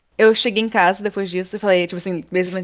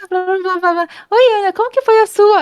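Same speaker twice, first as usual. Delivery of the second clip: much higher, louder mock chatter of friends; excited chatter; 13 semitones higher, 6 dB louder than usual. Colegas ansiosos perguntam a Ana como foi, tagarelice aguda e alta. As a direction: parrot the eager crowd, loud and high. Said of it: "e todo mundo".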